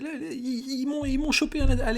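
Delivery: high, frantic pleading captive; panicked prisoner. Acted. GM voices captured prisoner.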